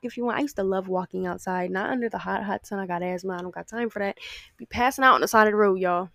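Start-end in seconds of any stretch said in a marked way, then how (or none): 4.6-6.1 joking exaggeration. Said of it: "I'm just kidding".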